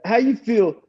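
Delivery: high mock taunt; taunting chaplain. Chaplain taunting the inmate, a high mocking jab. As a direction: needle him in the chaplain's voice.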